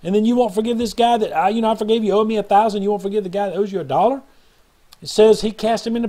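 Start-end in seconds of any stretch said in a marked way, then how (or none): 0.0-4.2 a preacher voicing an angry master, mildly raised; retold angry master. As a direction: scold the servant with a touch of anger. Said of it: "He's mad. He's wroth".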